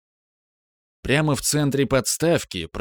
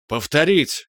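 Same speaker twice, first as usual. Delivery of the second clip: croaked; 5 semitones higher, slower than usual. A narrator's reading. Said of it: "каркнул Иваненко".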